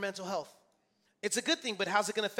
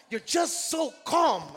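loud, high, drawn-out retold exasperation; exasperated disbelief; 6 semitones higher, 8 dB louder, slower than usual. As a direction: imitate a coworker baffled by you, slowly.

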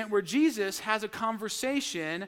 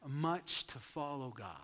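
breathy hushed whisper; 7 semitones lower, 11 dB quieter than usual. Real, not acted. Preacher hushing the congregation, whispering. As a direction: drop to a whisper for weight. Sermon aside on rich man.

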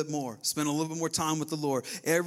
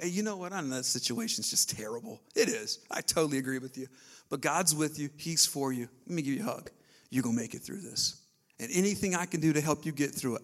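comforting friend. Acted. Pastor acting out comforting a church member, gently.

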